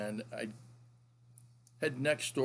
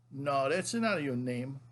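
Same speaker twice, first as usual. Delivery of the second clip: slow, lightly voiced grandfather contradicting; grandpa impression; slower than usual. Grandfather disputes grandson's name, lightly imitated grandpa voice. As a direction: imitate grandpa's drawn-out denial. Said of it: "He go".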